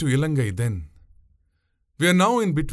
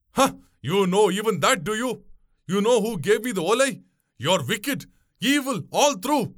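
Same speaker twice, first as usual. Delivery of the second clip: high, outraged outburst; frantic accusation; 7 semitones higher than usual. A narrator's reading. Passenger calling boatwoman wicked, frantic and angry. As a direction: accuse and threaten, voice pitched high. Enraged passenger threatens to jump.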